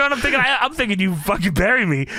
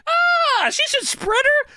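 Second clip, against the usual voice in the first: excited yelp; slower than usual. Real, not acted. Excited outburst about Sable.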